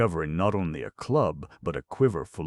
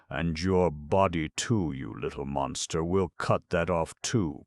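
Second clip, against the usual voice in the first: oily voice; 4 dB louder than usual. Acted. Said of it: "in his oily voice".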